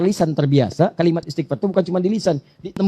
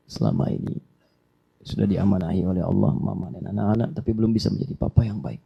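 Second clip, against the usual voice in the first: tearful father apology; 4 semitones lower than usual. Pretend. Father asking wife and children for forgiveness, tearful. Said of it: "Ambil suasana".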